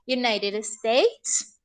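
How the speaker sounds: "United States" said slowly as a model for students; teacher's clear English "United States"; English pronunciation. Shown as a demonstration. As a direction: spell out "United States" for the class. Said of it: "se va a decir United States".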